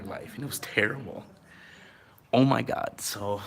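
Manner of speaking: slightly winded talk; out of breath from the altitude. Real, not acted. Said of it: "I'm out of breath".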